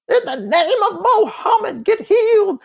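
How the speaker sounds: loud, high mock revival preacher; R W Shambach. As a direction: belt out a hammed-up healing command. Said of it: "that's the way he talked".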